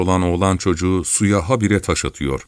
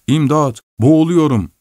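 raised, higher-pitched call for help; cry for help; 7 semitones higher, 4 dB louder than usual. A narrator's reading. Drowning man shouting as he surfaces, cry for help. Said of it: "diye bağırıyor".

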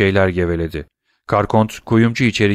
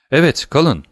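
trembling voice; 6 semitones higher, 3 dB louder than usual. A narrator's reading. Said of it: "dedi Karkon titrek bir sesle".

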